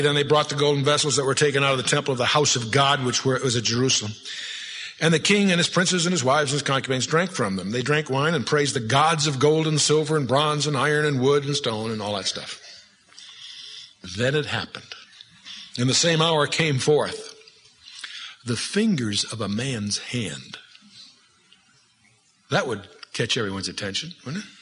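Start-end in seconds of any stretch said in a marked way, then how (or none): 0.0-11.9 measured, solemn Bible reading; scripture reading. Acted. Reads scripture aloud. 15.8-20.6 slow, solemn Bible reading; hushed, slow reading of the hand appearing; slow scripture reading. Acted. Reads scripture slowly.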